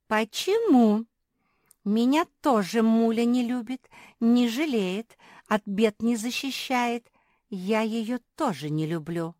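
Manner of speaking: loud, high hurt outburst; exclaiming. A narrator's reading. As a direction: cry it out loud. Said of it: "воскликнула".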